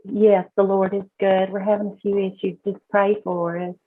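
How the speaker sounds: lightly put-on Southern Belle, playful; a hint of a genteel Southern lady asking for prayer; Southern Belle accent. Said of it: "I keep flipping into this Southern Belle accent".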